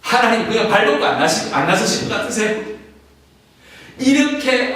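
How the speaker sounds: stirring sermon peak; fervent preaching. Real, not acted. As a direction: throw the question at the crowd. Passionate preaching rise.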